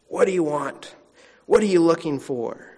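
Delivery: a touch terse and demanding. Acted. Preacher voicing Jesus who seems a little terse, bluntly. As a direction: put the questions bluntly, as if impatient. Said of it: "He seems a little terse".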